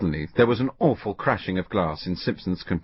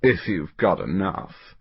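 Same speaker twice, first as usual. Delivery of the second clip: sneering; slower than usual. Acted. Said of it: "replied Kinch".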